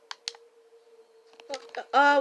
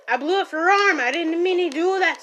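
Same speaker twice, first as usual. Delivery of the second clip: loud apology; 7 dB louder than usual. Acted. Apologizing loudly after blowing arm.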